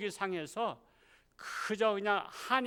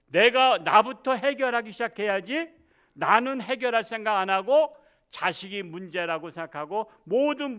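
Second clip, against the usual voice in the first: loud, pressing exhortation to repent; fervent preaching; 4 dB louder than usual. Acted. Pastor exhorting the congregation, loud fervent preaching. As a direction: urge the congregation to repent with force.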